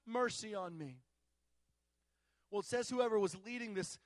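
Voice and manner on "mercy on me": loud acted proclamation, each title set apart; raised, emphatic voice of a man pleading publicly; imitated proclamation. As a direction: proclaim it as the blind man crying out. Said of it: "he was making this proclamation".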